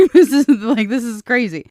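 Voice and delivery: loud, high, laughing "this is crazy"; laughing disbelief. Real, not acted. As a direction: laugh it out, half shocked.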